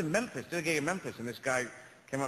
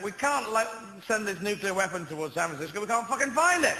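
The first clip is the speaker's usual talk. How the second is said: panicked officials; 5 semitones higher than usual. Retold or imitated. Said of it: "they're saying".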